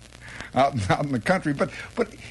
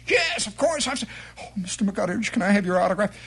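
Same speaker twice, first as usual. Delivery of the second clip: gushing fan; 5 semitones higher, faster than usual. Acted. Fan asks for autograph.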